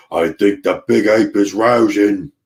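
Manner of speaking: a lightly voiced rough sailor's accent, panting; the cook bursting in, half out of breath, in a mild put-on accent; Lumpy's rough accent. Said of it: "accent, whatever accent that is".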